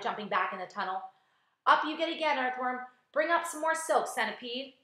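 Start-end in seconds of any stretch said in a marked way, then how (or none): 1.7-4.8 high, raised calls to the crew; shouted orders. A narrator's reading. James ordering earthworm and centipede about, shouting. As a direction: call out orders, voice pitched up. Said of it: "he shouted".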